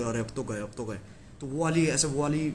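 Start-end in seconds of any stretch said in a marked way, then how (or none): 0.0-1.0 mock dread. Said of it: "वो feeling ... सुन्न हो जाता शरीर".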